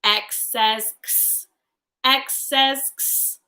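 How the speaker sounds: X named, then sounded as "ks"; slow phonics demo of X as "ks"; letter sound demo. Shown as a demonstration. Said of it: "what sound does X make".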